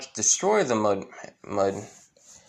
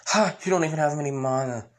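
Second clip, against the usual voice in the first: quick, higher-pitched taunt; mocking villain; 5 semitones higher, faster than usual. Villain to intruder with no mana, mocking. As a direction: scoff at a powerless challenger. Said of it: "but he says".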